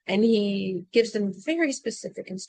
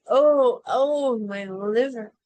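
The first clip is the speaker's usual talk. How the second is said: loud pained moans on each oh; moaning in pain; 2 semitones higher, 5 dB louder, much slower than usual. Acted. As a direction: groan it out like a queen in agony. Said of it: "moaning in pain".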